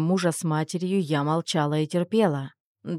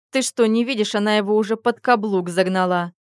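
hissed through teeth; 5 semitones higher, 5 dB louder than usual. Acted. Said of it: "процедила Лиля".

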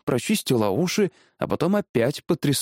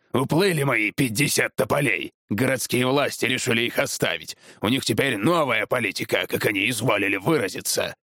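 lightly voiced grumpy tree feller; disgruntled husband. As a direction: grumble bitterly about the authorities. (слегка сыгранный недовольный муж)

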